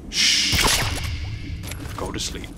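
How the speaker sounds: softly whispered lullaby taunt. Pretend. Gamer tranquilising a guard, teasing whisper. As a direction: hush him to sleep like a child.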